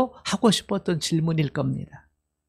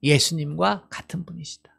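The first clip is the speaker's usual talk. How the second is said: softer echo of the answer; gentle softer restatement; quiet repeat; 5 dB quieter than usual. Shown as a demonstration. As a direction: say 예수님과 같은 분이시다 back quietly, as a recap. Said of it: "하나님이 누구시라고요?".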